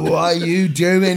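slow, drawn-out question; head melting. Retold or imitated. Asking his mate while his head's melting, dazed. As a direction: drag it out, mock dazed. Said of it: "While my head's melting and stuff".

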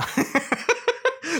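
a squeaky burst of laughter; shrill giggle breaking out; high laugh. Real, not acted. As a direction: giggle high at your own joke. Laughs at own joke.

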